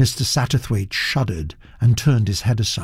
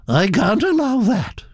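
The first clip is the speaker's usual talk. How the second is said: imperious Duchess; 10 semitones higher than usual. Acted. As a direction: pass judgement as a grand society lady.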